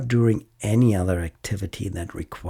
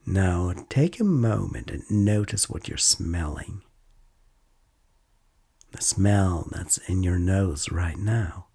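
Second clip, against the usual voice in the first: calm, unhurried mindfulness guide with long pauses; guided meditation. Acted. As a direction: gently lead a listener through noticing body and senses.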